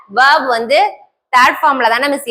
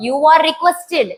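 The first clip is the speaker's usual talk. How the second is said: each word drawn out very slowly for the class; slow dictation; much slower than usual. Shown as a demonstration. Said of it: "அதுக்கு பதிலா என்ன போட்டுட்டோம்". (மிக மெதுவாக dictation சொல்வது)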